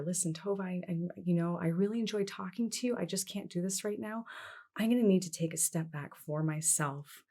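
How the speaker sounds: soft, measured and polite; quiet, composed letting-go of a friend; calm and professional. Shown as a demonstration. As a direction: end with a sheepish laugh. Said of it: "now you've done it very calmly and very professionally".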